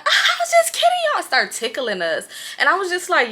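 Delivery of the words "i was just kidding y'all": high, loud laugh through the words. Retold or imitated. Drunk friend tells everyone he was joking, laughing. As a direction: imitate a friend cackling that it was a joke. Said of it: "Moose started laughing. He's like".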